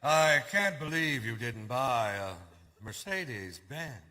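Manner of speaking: slow, drawn-out mock astonishment; mock disbelief. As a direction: imitate a car snob's disbelief, slowly. Retelling the Mercedes owner's disbelief.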